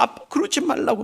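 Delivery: high-pitched imitation of a daughter; daughter's protest. Preacher voices daughter stopping her kneeling father, high protest.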